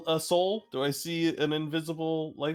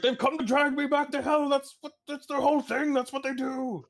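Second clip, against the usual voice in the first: panicked yelling; 11 semitones higher than usual. Acted. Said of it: "Luca's like".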